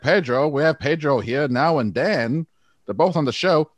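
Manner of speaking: mock old-timey mid-Atlantic radio accent. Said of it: "What about that mid-Atlantic accent".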